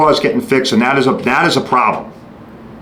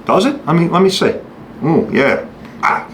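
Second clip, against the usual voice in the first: facetious shop guy; 3 semitones higher than usual. Retold or imitated. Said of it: "I'm being facetious here".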